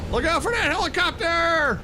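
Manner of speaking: high, excited warning cry; playful high-pitched alert; alarmed warning. Real, not acted. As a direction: call out a sudden hazard. Mock warning during the ride.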